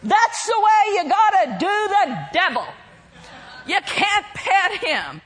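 loud preaching shout. Retold or imitated. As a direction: call it out boldly. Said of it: "he shouted out loud".

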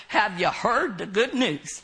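badly attempted Minnesota accent. Preacher imitating a friend who went out witnessing, Minnesota accent. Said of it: "in his Minnesota accent".

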